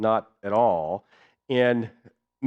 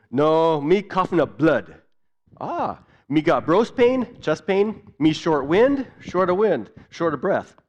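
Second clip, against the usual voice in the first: higher, slower patient listing symptoms; a hint of a struggling patient; patient in Pidgin; 5 semitones higher, 4 dB louder, slower than usual. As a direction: complain like a breathless sick patient. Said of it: "share with you a little bit of what that was like".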